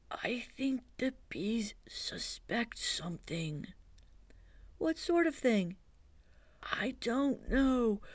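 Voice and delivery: lightly voiced Pooh, hushed and thoughtful; Pooh's hushed voice. Pooh explaining honey plan to Christopher Robin, hushed. Pooh worries about bees.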